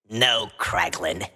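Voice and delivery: sarcastic. Acted. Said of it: "Rocket replies sarcastically".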